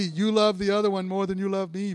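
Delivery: lightly pouting, whiny complaint; a hint of a jealous sulk; pouty voice. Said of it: "it's that pouty ... voice".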